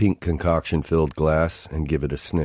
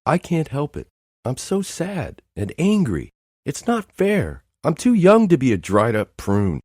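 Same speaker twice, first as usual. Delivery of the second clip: much higher, breaking tearful wail; wailing sob; 10 semitones higher than usual. Acted. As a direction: cry it out all at once. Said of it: "Now she's really going at it".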